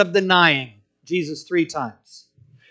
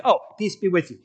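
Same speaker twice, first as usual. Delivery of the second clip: offhand reading; 4 dB quieter, faster than usual. Retold or imitated. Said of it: "as I read the words, I think".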